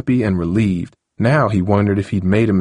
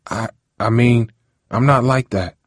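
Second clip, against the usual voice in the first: stammering; 4 semitones higher than usual. Acted. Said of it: "Harold stammered".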